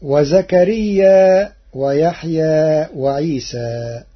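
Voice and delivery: "وزكريا" slow, ending on an open long a; no hamza. Shown as a demonstration. Teacher citing the verse before Warsh's reading, no hamza. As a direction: leave "وزكريا" open, without a glottal stop. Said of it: "بهمزة منصوبة بعد الألف".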